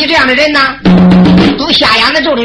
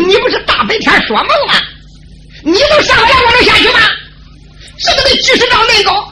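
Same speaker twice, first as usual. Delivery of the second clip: high, laughing scorn of a woodcutter; mocking laugh; 10 semitones higher than usual. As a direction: laugh at him as a daydreaming fool. Woodcutter mocks the trapped man.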